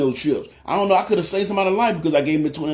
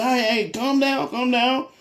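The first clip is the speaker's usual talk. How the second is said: high, drawn-out placating plea; calming him down; 7 semitones higher, slower than usual. Retold or imitated. Teller settles a defensive stranger, slow and placating. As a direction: slowly talk someone down, voice raised in pitch. Soothing a man getting defensive.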